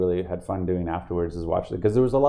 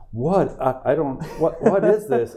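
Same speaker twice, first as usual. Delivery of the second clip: higher, halting, baffled questions; imitated disbelief; 5 semitones higher, slower than usual. Fans confronted with Funko Pops, mock baffled disbelief. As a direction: stammer like a thrown fan. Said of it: "kind of have this disbelief".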